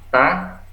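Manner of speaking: "ta" with a light, thin T. Shown as a demonstration. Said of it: "kalau ta ini tipis".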